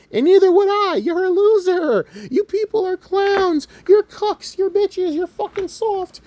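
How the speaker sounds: high, drawn-out yelled insults; worked-up high-pitched tirade; angry rant. Real, not acted. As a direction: hurl each insult slowly at a very high pitch. Ranting insults at online critics.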